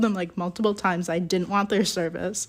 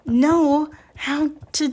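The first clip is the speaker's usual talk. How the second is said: laughing; 9 semitones higher, slower than usual. Retold or imitated. Mocking rep, voice climbing.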